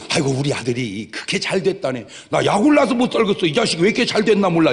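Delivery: hammed-up jealous mother; mock jealous parent. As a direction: play a parent bitterly jealous of their son's success.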